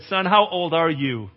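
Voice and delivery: drawn-out doubt, loud and deliberate; slow skeptical question. Retold or imitated. Questioning the kid tying his harness, slow and skeptical. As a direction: talk down to the kid slowly.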